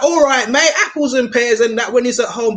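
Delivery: imitating an East End geezer at home; East End geezer accent. Mimicking an old Londoner on the news, East End accent. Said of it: "an East End geezer".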